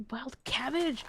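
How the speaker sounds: a bright happy burst; excited. Real, not acted. Streamer finds wild cabbage while foraging, excited. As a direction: cheer it like a lucky find. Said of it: "I got really excited".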